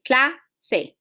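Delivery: "clase" split slowly, CLA stressed; teacher sounding out "clase" with weight on the first syllable. Shown as a demonstration. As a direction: say "clase" as CLA, small gap, then se. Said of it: "So in this case will be cla".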